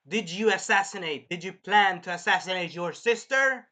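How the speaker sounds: retold interrogation. Acts queen interrogating.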